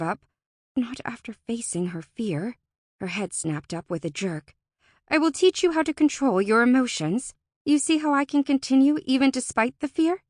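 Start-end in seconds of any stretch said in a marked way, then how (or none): 5.1-10.2 higher, louder, eager offer; determined Alora. A narrator's reading. Alora makes the doubtful Fae an offer, eagerly insistent. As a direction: push the offer with sudden resolve.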